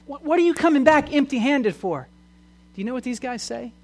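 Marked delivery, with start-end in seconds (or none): 0.0-2.1 mildly angry, higher-pitched scolding; mock ticked-off demand. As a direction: imitate bosses demanding an explanation. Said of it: "are mad. They're ticked off".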